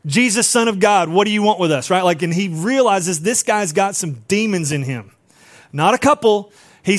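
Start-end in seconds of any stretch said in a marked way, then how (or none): 0.0-1.9 retold yell, only a little raised; half-hearted imitation of a man yelling; mild mock yell. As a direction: call it out lightly, imitating a yeller. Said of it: "he's yelling".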